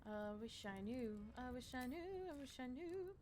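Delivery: playful helpless singsong; singsong resignation. Real, not acted. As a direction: repeat it wistfully. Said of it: "repeated three times".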